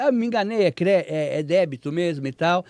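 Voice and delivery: mock scammer brushing off a mistake; scammer backpedaling. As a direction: play the caller smoothing over his slip.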